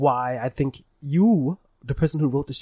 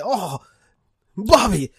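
Hank Hill; 6 semitones higher, 6 dB louder, slower than usual. Pretend. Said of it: "He would say".

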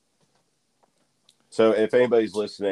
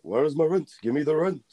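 gruff impatient scolding; 10 semitones higher than usual. Retold or imitated. Shop owner scolding Spider-Man.

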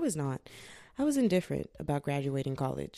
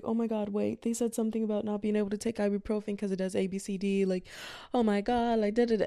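retold flustered worry, slightly raised; mildly panicked mom; 4 semitones higher than usual. Mom warning daughter about ibuprofen, mild retold panic. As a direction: imitate a worried mom rattling on. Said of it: "my mom kinda panicked".

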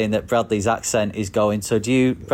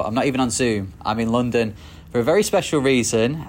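presenter welcome. Acted. Host opens interview segment.

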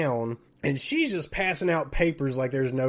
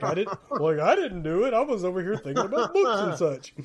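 mock innocent denial through laughter; 3 semitones higher than usual. James pretending he didn't flick the pen, laughing. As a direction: feign innocence, eyes off into space. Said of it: "James is already, like, looking off into space".

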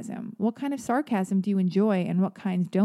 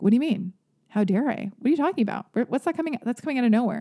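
taken-aback listener, imitated; 3 semitones higher, much faster than usual. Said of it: "people are like".

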